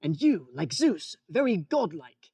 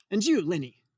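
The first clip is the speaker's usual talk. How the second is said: whispered aside. Acted. Boss asks Lenny aside.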